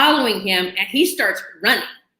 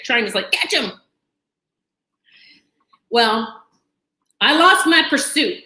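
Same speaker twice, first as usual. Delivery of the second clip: usual speaking voice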